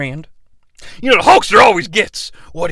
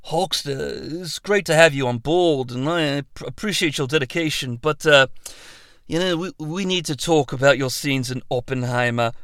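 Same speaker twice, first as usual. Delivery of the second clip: much softer, hesitant director voice; Christopher Nolan; 4 semitones lower, 8 dB quieter than usual. Acted. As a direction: break bad news gently and awkwardly. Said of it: "director Christopher Nolan".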